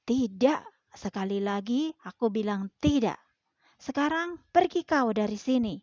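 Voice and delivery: angry cat. Acted. Angry cat chases duck away.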